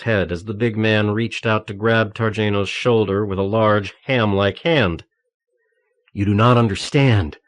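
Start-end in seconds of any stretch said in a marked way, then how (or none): 6.1-7.4 calm put-on American accent. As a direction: fake an American accent, calmly. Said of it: "Targeno said calmly in his best American accent".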